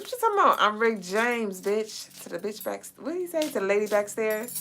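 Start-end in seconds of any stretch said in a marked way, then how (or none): 0.0-2.2 quote of a singer. Retold or imitated. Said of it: "that's what you said, Rick James".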